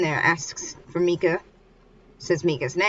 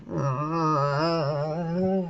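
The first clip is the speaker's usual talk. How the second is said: dazed groan. Acted. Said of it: "she's on the floor unconscious".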